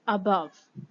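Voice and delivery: "above" said very slowly with a weak first a; schwa demo. Shown as a demonstration. Teacher models the schwa for students, very slow. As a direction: stretch "above" out, schwa at the start. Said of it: "अ sound".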